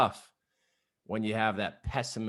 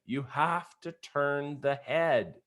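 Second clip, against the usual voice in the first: slow, spaced-out mock call; dad's instruction called out at half volume; measured, drawn-out imitation of a distant yell; imitated calling back; 3 semitones higher, slower than usual. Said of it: "he just kept yelling back to me".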